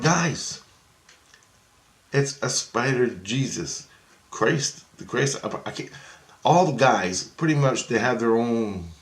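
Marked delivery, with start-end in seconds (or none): 0.0-5.9 exasperated protest. Retold or imitated. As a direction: throw up your hands and protest, pitched up. Protesting to the Christ figures.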